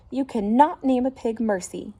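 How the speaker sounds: shouted. Acted. Neighbour objecting to the name, indignant shout. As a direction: protest it sharply. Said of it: "shouted Eugenia".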